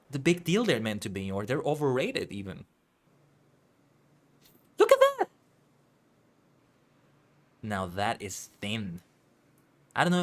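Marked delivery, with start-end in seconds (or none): 4.8-5.3 surprised. Real, not acted. Shocked at thin noodles.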